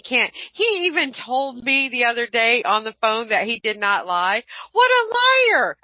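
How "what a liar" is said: high, slow, mocking scoff. Real, not acted. Scoffing at her lying boss, high and drawn out. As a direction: drag it out in disbelief.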